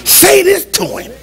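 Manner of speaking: high, slow, drawn-out coaxing; voiced imitation of an urging little demon; mock whispering tempter. Demon perched on your shoulder egging on a spouse, mock coaxing. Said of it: "They're whispering words".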